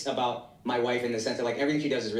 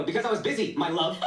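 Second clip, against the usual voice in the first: mock-irritated, higher, with a laugh in it; harsh pet name; 3 semitones higher than usual. Husband imitating his angry self to his wife, harsh pet name. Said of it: "I hit my pet names for her very harshly".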